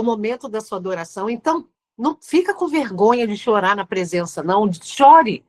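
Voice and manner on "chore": loud, higher call to weep; emphatic command. Acted. Preacher urging the congregation to cry, loud high command. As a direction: push the word out to the crowd.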